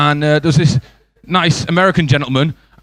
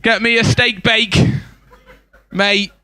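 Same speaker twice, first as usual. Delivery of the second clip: slow, raised-pitch matey royal order; mock Queen; 4 semitones higher, slower than usual. Queen sends her husband for food, slow mock-royal voice. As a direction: play the Queen placing a casual bakery order, drawn out. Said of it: "this is how the Queen speaks".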